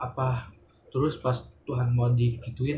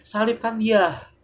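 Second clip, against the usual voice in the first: high, slow, louder cry of the mob; crowd cry; 8 semitones higher, 4 dB louder, slower than usual. Retold or imitated. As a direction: call for the crucifixion like the crowd. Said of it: "dia malah ngomong gini". (seruan massa yang tinggi dan lambat)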